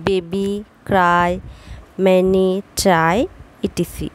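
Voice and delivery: বেবি and ম্যানি end in 'ee', ক্রাই and ট্রাই end in 'ai'; y ending sounds. Shown as a demonstration. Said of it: "ই বা আই উচ্চারণ হয়". (বেবি-তে ই, ক্রাই-তে আই ধ্বনি)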